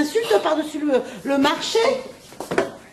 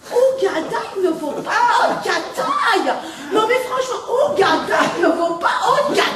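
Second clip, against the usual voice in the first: laughing disbelief; 4 semitones higher, 4 dB louder than usual. Acted. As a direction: echo the absurd claim, cracking up. Repeating the outrageous claim in disbelief.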